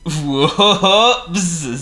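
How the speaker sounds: high, loud oops; careless whoops. Acted. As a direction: toss off a cheerful whoops. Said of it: "said Mister Clumsy".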